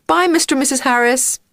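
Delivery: high-pitched farewell call; called-out goodbye. A narrator's reading. Miss Whiz to the parents as she drives off, calling out. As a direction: call out to the neighbours. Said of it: "she called out".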